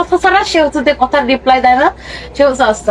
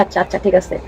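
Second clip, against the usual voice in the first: dismissive; 9 semitones lower, 6 dB quieter than usual. Acted. Husband brushing off wife.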